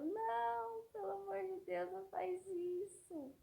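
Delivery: high, hushed pleading; mother begging a little boy not to pee in her bag, high and hushed; retold frantic plea.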